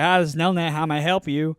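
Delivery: lightly voiced call center greeting; mock cheerful customer service voice; a hint of a chirpy phone rep. Retelling the phone call, a lightly imitated rep greeting. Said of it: "that Trump supporter ... bootstraps voice".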